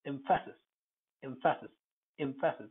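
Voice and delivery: Emphasis starting between "eh" and "ih"; Emphasis with a narrowed opening E; in-between first vowel. Shown as a demonstration. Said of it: "It's something between A and E".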